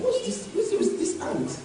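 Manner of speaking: mock disdain. Mocking a person looked down on.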